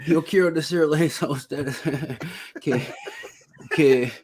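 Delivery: hammed-up presidential impression in Spanish; George Bush. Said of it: "my George Bush in Spanish".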